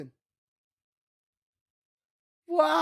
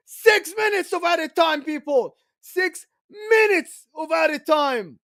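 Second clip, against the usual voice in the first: live play-by-play; 2 semitones higher, 3 dB louder than usual. Real, not acted. Commentator calls the late equalizer to viewers, live play-by-play. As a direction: call the action with rising urgency.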